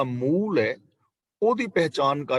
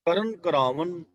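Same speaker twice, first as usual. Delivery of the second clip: ਕਰਨ ਕਰਾਵਨ recited as one phrase, then a rest; pause after ਕਰਾਵਨ; 2 semitones higher, slower than usual. Shown as a demonstration. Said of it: "ਇੱਥੇ ਵਿਸਰਾਮ ਲਗਾਵਾਂਗੇ". (ਕਰਨ ਕਰਾਵਨ ਪੜ੍ਹ ਕੇ ਵਿਸਰਾਮ)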